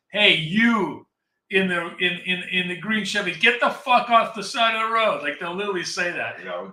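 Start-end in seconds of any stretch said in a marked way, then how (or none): 0.1-5.2 mock shouting, loud and high, like over a loudspeaker. Describing cops yelling at drivers on the horn, imitating a cop yelling loudly. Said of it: "They'll be like like really loud".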